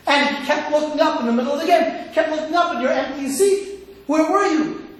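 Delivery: mild mock scolding, rising at the end; angry wife. Wife scolding husband for missing the soccer game, mildly angry. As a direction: voice an aggrieved wife confronting her husband. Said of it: "and she is angry".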